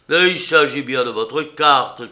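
loud, exasperated outburst; breathless shout. Acted. Panting painter shouting at the old woman, loud and exasperated. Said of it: "cria le peintre tout haletant".

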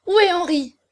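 high, loud demand; anguished cry. A narrator's reading. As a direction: cry out desperately for him. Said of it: "Un cri déchirant s'échappa de sa poitrine". (cri angoissé, fort et aigu)

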